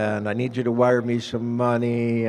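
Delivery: lightly acted grandson begging for help; pleading grandson. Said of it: "she gets a call and it's grandson".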